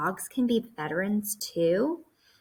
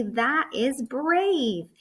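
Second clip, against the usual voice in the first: slow, higher and louder, "brave" stretched out; excited; 6 semitones higher, 4 dB louder, much slower than usual. Shown as a demonstration. Teacher modelling an exclamation point for kids, excited. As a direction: cheer it like it's amazing. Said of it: "I'm gonna say it excited".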